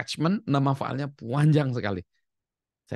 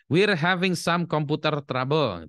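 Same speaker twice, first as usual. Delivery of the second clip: higher, slow, polite school caller; school on the phone; 6 semitones higher, slower than usual. Retold or imitated. School phones a mother, a lightly voiced polite caller. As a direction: read it like the school calling a parent. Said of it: "dapat telepon dari sekolahnya anaknya".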